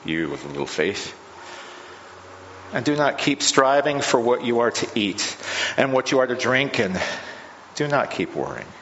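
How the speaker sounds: measured, formal Gospel reading from the pulpit; scripture reading. Acted. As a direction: read the passage to the congregation with care.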